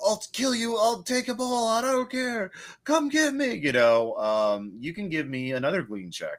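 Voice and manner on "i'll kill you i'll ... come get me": very high, shrieking, screamed delivery. Describing a man filming himself, acting out what he is screaming. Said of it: "he is screaming about".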